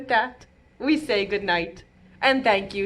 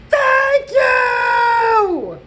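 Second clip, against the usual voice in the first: loud thank you; 10 dB louder than usual. Acted. Boy shouts thanks to teacher.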